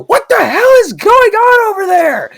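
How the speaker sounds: high, drawn-out screechy manager yell. Retold or imitated. Manager yelling at her employee from afar, shrieking. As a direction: shriek it across the kitchen like a furious manager. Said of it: "I just hear his manager go".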